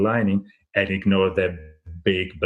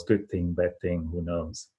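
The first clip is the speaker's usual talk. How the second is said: calm shrug; 2 semitones lower, 5 dB quieter than usual. Retold or imitated. Farmer shrugs off neighbors' praise.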